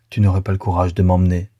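amertume légère, à peine marquée; ton amer. Acted. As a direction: reproche amer mais retenu. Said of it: "d'un ton amer". (Louise repousse Frédéric, un peu d'amertume)

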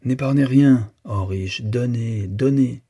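mild oratorical appeal. A narrator's reading. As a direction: lightly declaim it, urging the listeners to give. Speech's closing appeal to the rich.

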